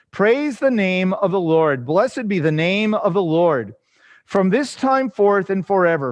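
measured, declamatory psalm reading; scripture reading. Acted. Teacher reading the psalm aloud to the class, measured scripture reading. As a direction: read it out in steady phrases, each falling at its close.

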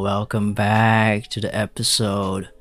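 mock British host accent; hammed-up British podcast welcome. Podcast host greeting listeners in a put-on British accent. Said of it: "點解變咗British accent？".

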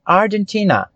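"Argentina" with the strongest beat on "ti"; "Argentina" said ar-jen-TI-na, stressing TI. Shown as a demonstration. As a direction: lean on the third syllable of "Argentina", "ti". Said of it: "A sílaba mais forte, ela é a T".

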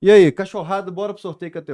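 hyped giveaway announcement. Acted. Opens the giveaway.

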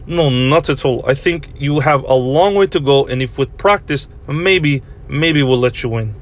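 put-on Russian critic's accent. Russian listener tells host to practice, in a Russian accent. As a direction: deliver the verdict in a Russian accent. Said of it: "do this Russian accent you do".

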